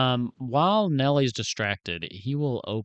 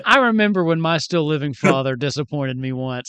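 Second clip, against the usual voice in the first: loud, hammed-up raised-pitch consolation; playfully overdone sympathy speech; mock tactless consoler; 5 semitones higher, 7 dB louder than usual. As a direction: put on a blundering, self-important comforter.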